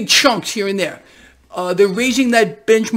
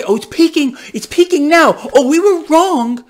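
mocking quote; 6 semitones higher, 5 dB louder than usual.

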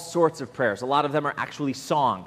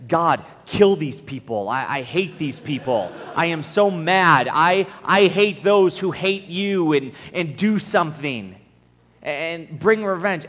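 mock fury; 4 dB louder than usual. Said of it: "it gets weird, and it's like".

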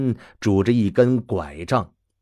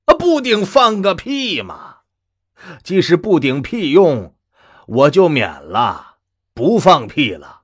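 put-on old man pleading; 3 semitones higher, 4 dB louder than usual. Grandfather begging grandson, sarcastic.

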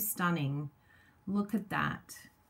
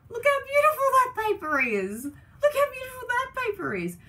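much higher, louder, laughing squeal of delight; gushing squeal; 6 dB louder than usual. Real, not acted. Crafter gushing to viewers over the paper, high squealing delight.

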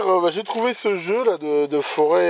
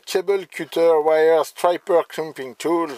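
English product name read slowly in a thick French accent; heavy French accent English; 3 dB louder, slower than usual. Real, not acted. Reading an English product name to viewers, heavy French accent. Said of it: "avec mon accent de merde".

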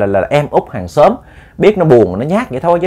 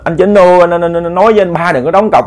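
mildly raised, repetitive acted begging; pleading; 3 semitones higher than usual. Frightened ghost asks Chính to intervene, pleading. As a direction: beg insistently, repeating the plea. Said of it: "Nhưng mà xin".

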